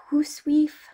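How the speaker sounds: "hoosweef" drawn out as HOOS-weef; dialect pronunciation. Shown as a demonstration. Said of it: "how the word was pronounced".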